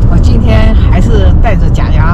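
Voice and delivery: slightly slurred speech through dentures; speaking with dentures. Real, not acted. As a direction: talk around loose false teeth. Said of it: "说话还是不利索".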